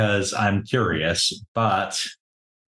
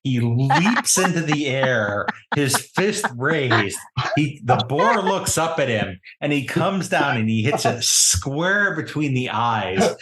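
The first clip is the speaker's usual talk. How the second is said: dramatic game narration; 3 semitones higher than usual. Acted. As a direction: build each beat of the heroic blow. Game master narrates the punch.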